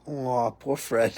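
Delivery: slow, drawn-out mock sympathy; lightly imitating a doting "aw"; imitating ex-wife's pity. First wife teasing his dad, slow mock pity. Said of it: "She would always go".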